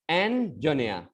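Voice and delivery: "एन जनिया" in two parts, en, juh-niya; corrected pronunciation. Shown as a demonstration. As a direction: hold EN, then a short juh in "एन जनिया". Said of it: "कैसे बोलेंगे इसको?".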